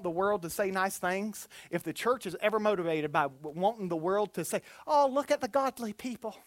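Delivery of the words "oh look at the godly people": higher, lilting Irish onlooker; mock admiration in an Irish accent. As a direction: put on a light Irish accent. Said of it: "I don't know why I went Irish".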